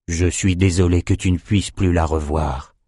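low, gentle condolence; subdued, mildly sorrowful apology; consoling. Acted. Nathan consoles the mourner.

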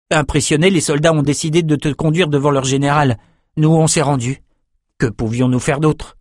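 lightly voiced, lively young man; Jed, admiring young companion. Jed explaining to Bannon how they were captured, animated.

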